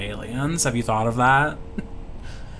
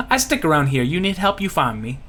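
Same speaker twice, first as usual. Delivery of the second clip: put-on Louisiana accent. Lucky offering the party help, Louisiana accent. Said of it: "I cannot do a Louisiana accent".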